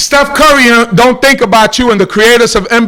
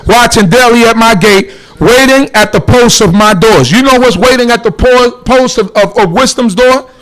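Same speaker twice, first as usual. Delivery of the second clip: louder, drive the scripture home; emphatic preaching; 6 dB louder than usual. Real, not acted. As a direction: preach the verse out loud to the room.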